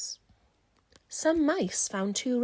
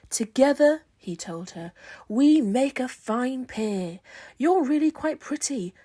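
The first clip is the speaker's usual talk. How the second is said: boastful charmer; 3 semitones higher, 6 dB louder than usual. Acted. Boastful new scarecrow flirts.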